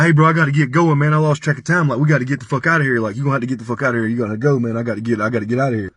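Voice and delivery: rapid, urgent imitation; hurrying him out. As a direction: rattle it off like a host ousting a guest.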